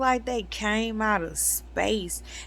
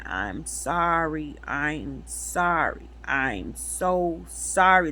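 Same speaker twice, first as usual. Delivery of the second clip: sorrowful apology; 4 semitones lower, slower than usual. Retold or imitated. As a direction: let each sorry sink, slow and lower. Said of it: "this voice was making me wanna cry".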